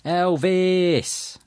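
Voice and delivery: put-on a high, thrilled child's squeal of the name; delighted squeal. A narrator's reading. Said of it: "Lenny squealed with delight".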